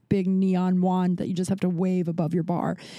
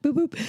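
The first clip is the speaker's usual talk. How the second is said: phone beeps imitated; 6 semitones higher than usual. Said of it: "my phone's gonna be like".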